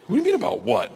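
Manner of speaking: acted exasperated nervous passenger; incredulous echo. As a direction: throw the question back in disbelief. Incredulous echo of instructor's question.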